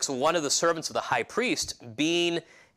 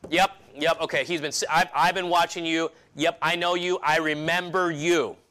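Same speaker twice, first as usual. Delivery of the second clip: sure of it, slightly raised; confident accusation; 2 semitones higher than usual. Acted. Accuser telling Peter he has been watching him, confidently affirming. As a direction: insist with mild, firm certainty. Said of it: "He confidently affirmed".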